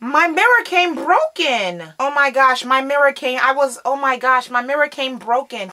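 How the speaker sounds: can't believe it's broken; upset surprise. Real, not acted. Vlogger finding her mirror broken, dismayed.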